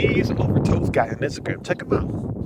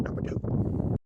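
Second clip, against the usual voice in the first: breathless whisper; 12 dB quieter, slower than usual. Real, not acted. Counting hill sprints aloud.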